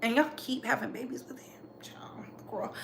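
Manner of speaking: hushed whispered aside. Real, not acted. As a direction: drop to a whisper, sharing gossip.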